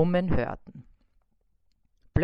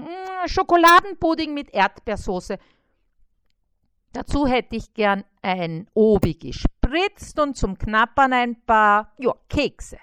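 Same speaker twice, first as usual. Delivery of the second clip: greedy little fly; 5 semitones higher, 7 dB louder than usual. A narrator's reading. Fly dictating a huge food order, high eager voice. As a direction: rattle off the order with relish.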